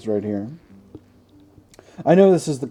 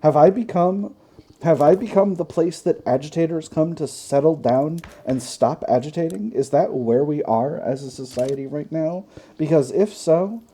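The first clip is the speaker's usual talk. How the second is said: higher, exasperated mock tirade; mock indignation; 4 semitones higher than usual. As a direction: play indignant, with pointed questions. Mock tirade at game's agitator.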